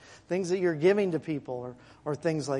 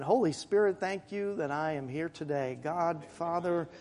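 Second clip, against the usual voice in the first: quiet prayer; 2 semitones lower, 7 dB quieter than usual. Shown as a demonstration. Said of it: "but at least an acknowledgement".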